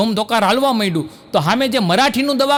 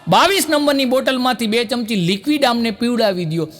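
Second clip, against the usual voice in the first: calling out to nurse. Retold or imitated. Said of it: "Gujarati ડૉક્ટરે રાડ પાડી".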